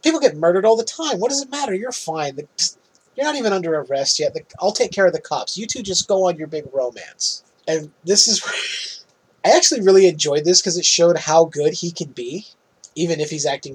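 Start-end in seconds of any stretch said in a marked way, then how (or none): 0.0-7.4 lightly voiced flippant therapist; breezy dismissal. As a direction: brush it all off fast. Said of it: "And she goes".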